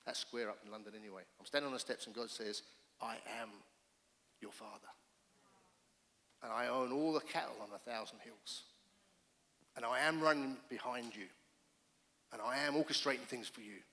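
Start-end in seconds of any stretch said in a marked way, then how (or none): 3.0-13.8 hushed, tender reply from God; God reassuring. Pretend. God speaks to lonely Dave.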